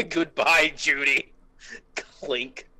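ordinary talk, nothing marked

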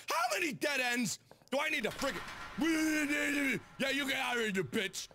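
high, frustrated outburst; real exasperation. Real, not acted. Player hitting dead ends in the game, exasperated.

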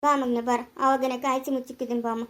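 put-on low coaxing to a child; gentle soothing. Coaxing a crying child to come, soothing.

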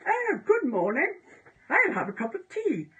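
exaggerated high, swooping British accent; caricature standard Brit. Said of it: "is like your standard Brit".

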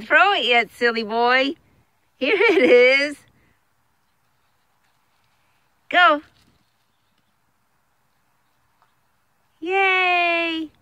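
high squeaky dog praise; squeaky praising a dog. Real, not acted.

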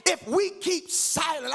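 sung, measured preaching lines; preaching cadence. Acted. Pastor listing duties to the church in a sung cadence. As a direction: chant each charge over the organ.

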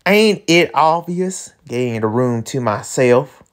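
lightly drawled cowboy villain; slow country drawl, lightly put on; Southern drawl character. Voices Montresor in the script.

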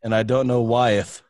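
mock olde British accent with -eth endings. Host reading lyrics to players in mock British. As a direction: ham up a fake British accent. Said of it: "British voice".

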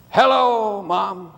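drawn-out, downcast greeting, lightly acted; glum, sad voice. Slumping player phones his mom, glum and sad. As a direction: imitate a glum son on the phone. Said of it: "in a glum, sad voice".

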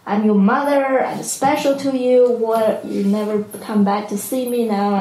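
a touch of mock maternal outrage; angry mother. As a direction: imitate an indignant mother, understated. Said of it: "First was very angry".

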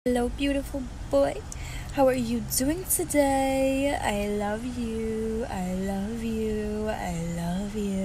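dote on him gently; pet talk. Real, not acted. Talking to pet.

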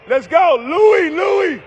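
high, loud call across the gym; shouting a player's name from the stands; courtside shout. Real, not acted. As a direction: yell his name over the crowd. Calling to son on court.

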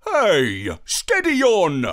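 indignant dog's yelp; protesting woof. Acted. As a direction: bark out a complaint. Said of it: "I woofed".

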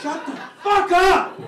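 high, full-force mock outburst; exasperated comic shout; angry yell. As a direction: snap back at top volume. Acted yelling back at wife.

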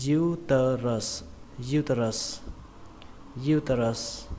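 "uterus" opening on stressed "diu"; "diu" first syllable. Shown as a demonstration. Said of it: "âm diu". (đọc "uterus" nhấn âm đầu "diu")

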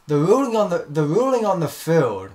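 referee announcement. Pretend. Acting referee announcing a ruling.

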